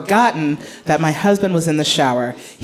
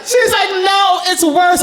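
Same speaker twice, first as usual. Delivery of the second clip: put-on little girl voice; 10 semitones higher, slower than usual. Daughter answering, voiced high.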